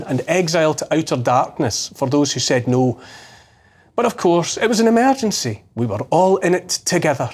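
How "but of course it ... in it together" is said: sarcastic parroting, pitched up in the middle; mock official excuse. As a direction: parrot their excuse with heavy irony. Mockingly voices the official excuse.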